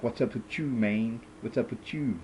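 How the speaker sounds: lightly imitated Latino gang accent; put-on Latino street accent. Breakdancer walking around his gang turf, mock Latino accent. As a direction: mimic a phony Latino accent, playfully. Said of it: "the accent disappears".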